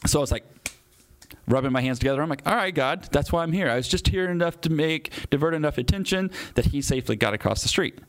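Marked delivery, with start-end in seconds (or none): 2.5-8.0 high-pitched, satisfied self-talk; retold chat upward to God, pitch well raised; pleased realization. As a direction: lightly act out wrapping up a job.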